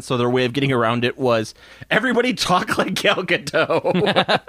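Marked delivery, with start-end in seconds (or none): 1.9-4.4 slow, lightly put-on Israeli accent, laughing through it; mock the movie's director in a slow Israeli accent; Gal Gadot Israeli accent. Podcast host mocks the filmmakers' accent fix, slow mock Israeli accent. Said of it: "Gal Gadot could not do anything other than her own accent".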